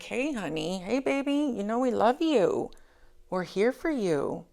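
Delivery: butter someone up sweetly; sweet coaxing. Acted. People trying to converse with him, overly sweet. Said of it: "being so sweet".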